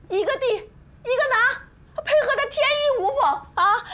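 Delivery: slow, tearful sarcasm; mock their teamwork through tears; bitter slow sneer, close to crying; sarcastic. Wife sarcastic about the pair.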